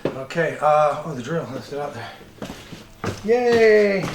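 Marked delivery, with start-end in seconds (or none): 3.2-4.0 excited cheer. Real, not acted. Finds the drill, cheers.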